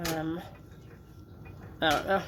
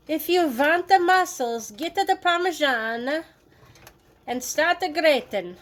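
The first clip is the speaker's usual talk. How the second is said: hammed-up gym coach voice, higher and slow; mock strongman voice; 6 semitones higher, 3 dB louder than usual. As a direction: pump them up like a cheesy trainer. Mock muscle-man pep talk.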